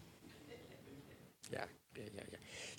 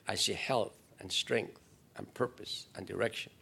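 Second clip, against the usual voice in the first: earnest prayer. Acted. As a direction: pray it as your own. Voiced prayer.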